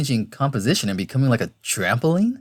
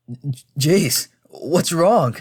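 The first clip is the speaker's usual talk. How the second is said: slightly raised, stammered concern; worried; 3 semitones higher, much slower than usual. Acted. Tom holding injured friend, worried question. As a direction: ask with anxious care.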